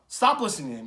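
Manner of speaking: ordinary delivery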